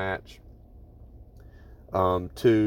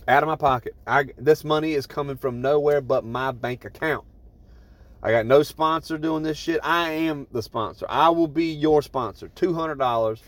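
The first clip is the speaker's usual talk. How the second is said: raised, emphatic and energetic; excited; 5 semitones higher than usual. Real, not acted. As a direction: pump it up, you're the sponsor. Excitedly offering to pay fees.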